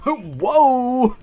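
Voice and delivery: high, loud laughing whoa; shocked whoa. Real, not acted. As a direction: react with startled laughter. Shocked reaction to neck snap.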